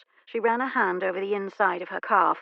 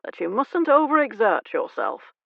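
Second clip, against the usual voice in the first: fatherly exasperation; 4 semitones higher, 4 dB louder than usual. Acted. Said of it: "Diggs said with fatherly exasperation".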